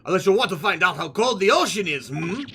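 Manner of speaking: menacing mock-Russian sailor; bad Russian accent. Sailor threatens captive with the ocean, bad Russian accent. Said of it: "pretend bad Russian accent".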